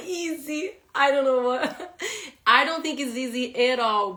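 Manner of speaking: laughing protest. Real, not acted. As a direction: protest through your laughter. Laughing protest that it's not easy.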